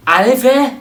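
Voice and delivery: loud, high furious outburst; angry shout. Acted. Insulted guest yells at the family while leaving, furious shout. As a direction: yell it as you storm out.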